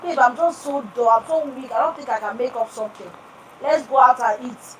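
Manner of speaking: soft, weary wife asking; tired whine. Retold or imitated. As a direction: sound drained and coax him. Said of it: "imagine telling your husband".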